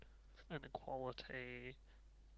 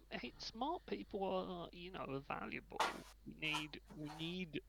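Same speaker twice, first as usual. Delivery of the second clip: through gritted teeth; 4 semitones higher than usual. Pretend. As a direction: grudgingly praise smart people. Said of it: "He said through gritted teeth".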